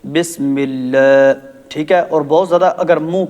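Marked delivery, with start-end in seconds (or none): 0.0-1.3 slow Bismillah with long drawn Allah; slow drawn recitation of بسم اللہ; demo reading. Shown as a demonstration. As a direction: stretch بسم اللہ slowly. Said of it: "یہ مجہول ہے".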